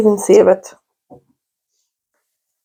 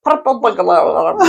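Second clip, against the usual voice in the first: laughing attempt; 2 semitones lower than usual. Shown as a demonstration. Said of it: "Scottish people can't say".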